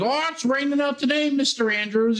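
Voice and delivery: very high sing-song nurse voice. Retold or imitated.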